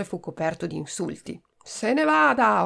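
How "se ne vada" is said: slow, higher, commanding; angry order. Acted. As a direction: throw the doctor out. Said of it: "ordinò Pomodoro". (ordine secco e arrabbiato, lento)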